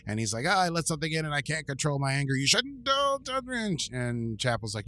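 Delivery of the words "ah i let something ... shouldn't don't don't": mock anguish. Spock voiced losing control.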